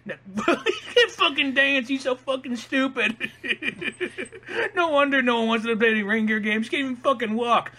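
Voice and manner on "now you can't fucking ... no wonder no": high, giggling taunt; laughing through a teasing jab; laughing while mocking. Real, not acted. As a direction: crack up mid-insult. Mocking Rudolph while cracking up.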